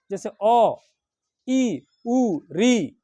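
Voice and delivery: अ, ई, उ, री each clipped short; short vowels. Shown as a demonstration. Teacher demonstrating short vowels, each said quickly. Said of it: "सबसे कम समय लगता है".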